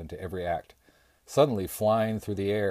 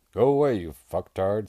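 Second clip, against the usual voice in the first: snarled insult; 8 dB louder than usual. A narrator's reading. Bear snarls from inside trailer.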